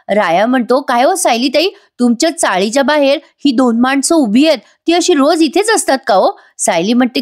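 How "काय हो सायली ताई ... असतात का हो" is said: Raya. Acted. Raya voiced, worried.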